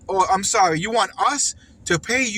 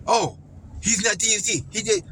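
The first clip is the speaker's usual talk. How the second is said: mocking Indian accent. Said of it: "Indian dude".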